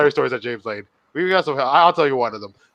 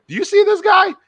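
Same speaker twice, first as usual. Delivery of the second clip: higher, urgent question; acting out waking someone; urgent retold question; 4 dB louder than usual. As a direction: ask it pressing, pitched up. Acted urgent question to sister.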